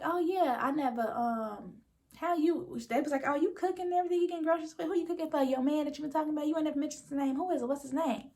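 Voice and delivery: pry at her like nosy friends; lightly voiced nosy friends; teasing girlfriends. Friends teasing Fatima about man.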